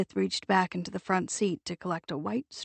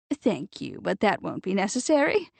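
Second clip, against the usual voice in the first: airy. Acted. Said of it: "she said airily".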